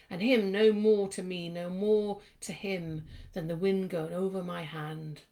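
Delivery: slow, measured poetry recital; poem reading. Acted. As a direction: read the verse out slowly, line by line. Reads a poem aloud.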